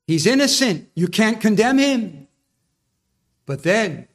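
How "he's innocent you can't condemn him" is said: voice of conscience. Retold or imitated. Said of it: "Conscience was speaking to him".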